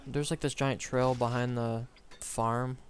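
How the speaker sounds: lisping around a chewed cap; mouth full. Real, not acted. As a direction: talk with a cap in your mouth. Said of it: "I was chewing on a cap, that's why I sounded like that".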